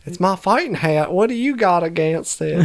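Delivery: half-hearted hillbilly voice; country accent. Acted. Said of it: "that was a really bad country accent".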